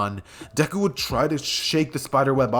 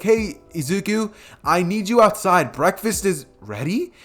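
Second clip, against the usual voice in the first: mom calling out; 6 semitones higher, slower than usual. Acted. Mom calling son to breakfast.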